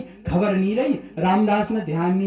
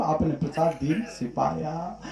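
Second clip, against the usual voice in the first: tearful repeat; 3 semitones lower, 8 dB quieter than usual. Acted. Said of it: "फपक फपक करके रोने लगा".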